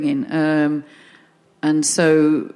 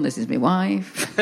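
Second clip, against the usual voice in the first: imitating dad; 2 semitones lower, 3 dB quieter, slower than usual. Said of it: "this is my dad introducing my mum to someone".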